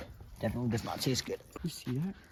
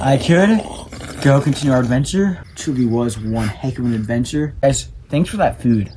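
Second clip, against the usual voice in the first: loud announcing; 12 dB louder than usual. Pretend. Loud wrap-up.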